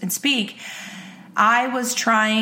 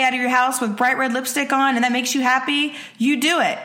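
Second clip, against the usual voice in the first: husband cheering her on; 3 semitones higher than usual. Retold or imitated. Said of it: "He's like".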